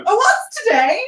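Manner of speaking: excited shout from a window; calling out. Acted. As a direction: call out to a boy below. Calls out the window.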